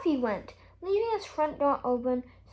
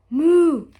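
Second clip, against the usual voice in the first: a loud breathy whispered moo; 2 semitones higher, 12 dB louder than usual. A narrator's reading. Pig answers Mister Silly with a whispered moo. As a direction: push out a voiceless moo like a cow.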